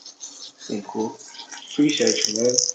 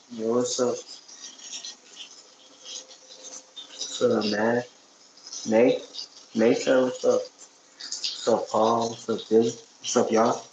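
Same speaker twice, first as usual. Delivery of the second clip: talking around a toothbrush; mumbled through a mouth of toothpaste; while brushing teeth; 4 dB quieter than usual. Real, not acted. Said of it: "I'm brushing my teeth".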